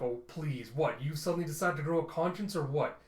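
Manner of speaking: mildly exasperated, rising challenge; acted irritation, building toward the questions; annoyed. Telsa challenging a crewmate's sudden conscience, annoyed. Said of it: "Telsa gets annoyed".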